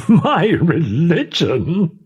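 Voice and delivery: high, slow, incredulous cry; amused cry. A narrator's reading. The captain crying out in amused disbelief at her request. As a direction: toss the words back in amused disbelief. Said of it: "cried the captain".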